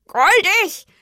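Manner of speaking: high, loud, indignant crow croak. A narrator's reading. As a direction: croak it back as an offended question. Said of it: "krächzte die Krähe". (empört gekrächzt, hoch und laut)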